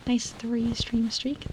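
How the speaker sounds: slow, breathy whispered reread; whispered reread of a chat message. Real, not acted. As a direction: whisper it slowly this time.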